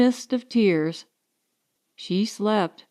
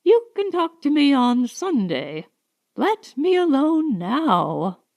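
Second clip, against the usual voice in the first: tired plea; 4 semitones higher than usual. Acted. Tired woman begging rest.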